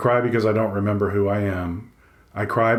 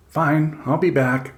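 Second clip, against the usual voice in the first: offended; 8 semitones higher, slower than usual. Acted. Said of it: "enough deliberation to seem offended".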